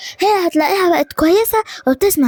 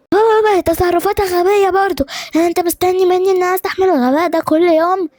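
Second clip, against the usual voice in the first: higher-pitched exasperated objection; indignant protest; 5 semitones higher than usual. Acted. Son arguing with father over his wife, indignant protest. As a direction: argue back, pitch raised.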